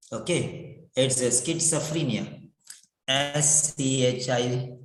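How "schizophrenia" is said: schizophrenia as skit-suh-FREE-nia; correct pronunciation. Shown as a demonstration. Teacher restores the right word, schizophrenia as skit-suh-free-nia. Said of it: "What all pronunciation?".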